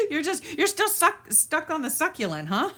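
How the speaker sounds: high voice bubbling with laughter; amused, laughing. Real, not acted. Laughing at a viewer's comment.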